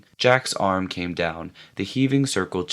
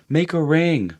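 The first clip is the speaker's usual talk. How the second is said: higher and louder order; shouted; 8 semitones higher, 5 dB louder than usual. A narrator's reading. Jack ordering the hunters, shouted. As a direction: call the boys round. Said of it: "Jack shouted".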